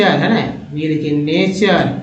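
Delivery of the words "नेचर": नेचर slowly, ending in a held चर; word sounded out. Shown as a demonstration. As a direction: stretch नेचर into ne-char. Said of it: "चर देखिए तो नेचर".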